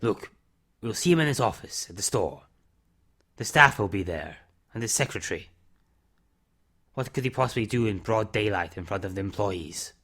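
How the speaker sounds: a hint of a weary man owning up to his past; subdued confession; Mister Summers. Narrator voices Mister Summers reassuring.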